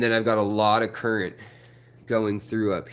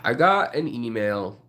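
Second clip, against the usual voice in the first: a bit winded; out of breath. Real, not acted. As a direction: talk while catching breath. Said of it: "Man, I'm out of breath".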